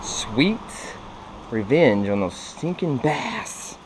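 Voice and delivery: slow, drawn-out mock gloating; gloating revenge. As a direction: savour each word like a mock villain. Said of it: "I was like".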